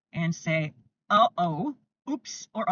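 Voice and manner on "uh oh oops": playful. Shown as a demonstration. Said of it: "keep a little sense of humor".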